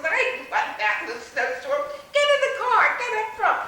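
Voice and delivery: loud high urging. Retold or imitated. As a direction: push her loudly into the car. Friend urges her into car.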